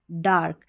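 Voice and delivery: डार्क with the A running into the R; A joined with R. Shown as a demonstration. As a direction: sound the R in डार्क straight after a long A. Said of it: "यानी ए आर लग के आ रहा है".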